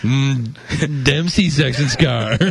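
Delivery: slow leering drawl. Pretend.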